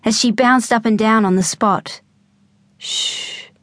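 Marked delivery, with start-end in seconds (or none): 2.8-3.5 whispered shh; shushing. A narrator's reading. Mum hushing her kids at the door. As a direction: hush them softly. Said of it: "held a finger up to her lips".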